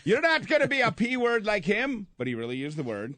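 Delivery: put-on high Irish-accented teasing order; Irish accent, insisting she stays. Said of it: "I'm done with the accent".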